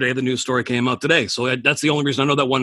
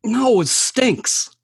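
drawn-out scornful no; 9 semitones higher, much slower than usual. Real, not acted. Mocking a rock band's song.

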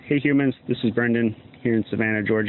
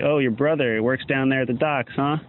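movie villain threat; 2 semitones higher than usual. Retold or imitated. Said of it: "something a villain would say in a movie".

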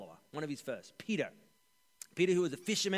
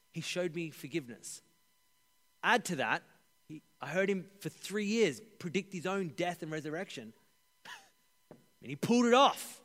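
understated Peter voice. Acted. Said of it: "let me get my best Peter voice on".

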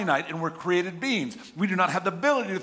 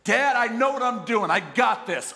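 higher, louder mock-insistent kid; stubborn child; 6 semitones higher, 4 dB louder than usual. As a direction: imitate a stubborn kid brushing off his dad.

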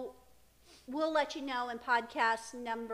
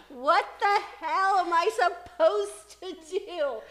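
exasperated mock cry; 5 semitones higher, 9 dB louder, slower than usual. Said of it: "I was just like".

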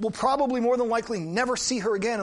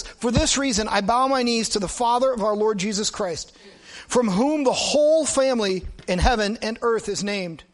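steady, louder reading voice; scripture reading; 4 dB louder than usual. Acted. Pastor reading Ephesians to the congregation, measured and solemn. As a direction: read the verse with weight.

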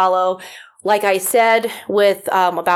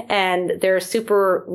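usual speaking voice

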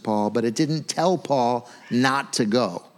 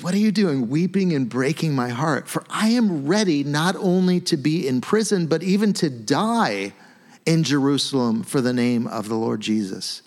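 Paul's blunt answer. Retold or imitated. Preacher voicing Paul rebuking the weeping friends, emphatic. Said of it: "But he's like".

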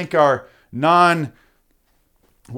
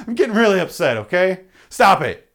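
real anger; 4 semitones higher, 3 dB louder than usual. Real, not acted. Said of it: "real aggression right now".

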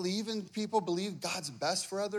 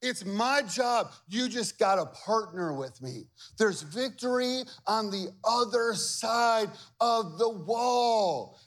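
God's voice; 2 semitones higher, slower than usual. Acted. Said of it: "He goes".

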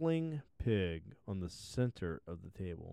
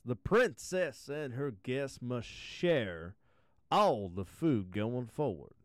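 servant announcement. Acted. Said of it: "made a soft announcement".

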